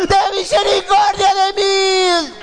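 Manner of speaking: high, long-drawn desperate shout; full acted cry. Blind man shouts to Jesús for mercy, drawn-out cry. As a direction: cry out for mercy, stretching every word. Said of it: "este hombre gritó".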